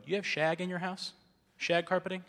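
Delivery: high, amused mock surprise; a playful imitated surprise; 1 surprised remark. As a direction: ask it like you just spotted the carpet burns. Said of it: "people would go".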